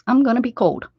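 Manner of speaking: hammed-up dismay at the cold; lightly put-on voice; mock exclaiming. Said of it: "I was like".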